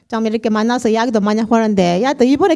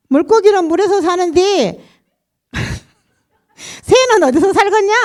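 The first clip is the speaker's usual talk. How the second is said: lightly voiced Jeolla dialect, higher, laughing at the end; a playful Jeolla-dialect riddle for kids; Jeolla pastor's quiz; 8 semitones higher than usual. Pastor quizzes children in Jeolla dialect, laughing. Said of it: "그런 식으로 전도를 하시는".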